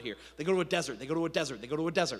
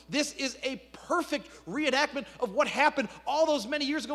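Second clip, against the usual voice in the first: raised, driving sermon delivery; impassioned preaching; 3 semitones higher than usual. Real, not acted. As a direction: preach it with mounting urgency.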